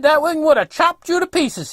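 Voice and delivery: imitating the old fellow's yelling; retold yell. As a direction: scold loudly from across the way. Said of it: "he's yelling over at me".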